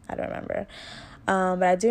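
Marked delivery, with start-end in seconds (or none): 0.1-0.7 breathy laugh through the words, almost whispered. Real, not acted. Laughing softly at herself to viewers, whispered. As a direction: giggle it out under your breath.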